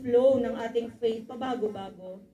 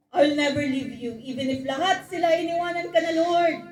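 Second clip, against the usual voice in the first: bragging vow; 3 semitones higher, 4 dB louder than usual. Acted. Peter boasting to the Lord he'll never leave. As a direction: brag it like a proud disciple.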